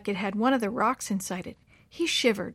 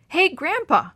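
higher, louder startled call; surprise; 8 semitones higher, 6 dB louder, slower than usual. A narrator's reading. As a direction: suddenly realize it's morning. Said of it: "Willie said in surprise".

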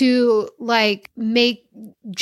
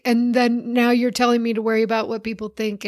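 raised, shouting protest; a kid shouting her parent's hypocrisy back; retold daughter's protest. Daughter's angry retort quoted.

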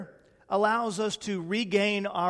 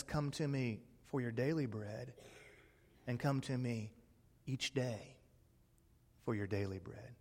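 much softer, lower tender invitation; gentle voice of God; 5 semitones lower, 14 dB quieter than usual. Acted. God gently invites his people, soft tender. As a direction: invite them in, hushed and kind.

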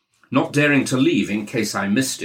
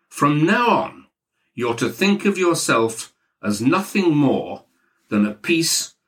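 pompous boss, pitched higher; Maxwell; 4 semitones higher than usual. Acted. Maxwell laying down the law to his new recruit, higher and hectoring. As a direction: lay down the law to a lowly employee.

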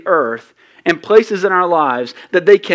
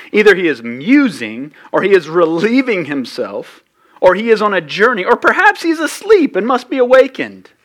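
mild mocking; 2 semitones higher than usual. Pastor reading Elijah's taunt to the prophets, understated mockery. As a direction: read the taunts with a sly dig. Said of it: "Elijah mocked them".

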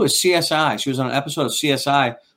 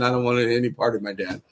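mock daughter voice; 4 dB quieter than usual. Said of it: "She might not have said".

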